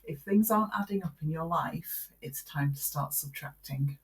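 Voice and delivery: measured, spaced-out delivery of a saying. Shown as a demonstration. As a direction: say it again slowly and clearly. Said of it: "Say that again slowly".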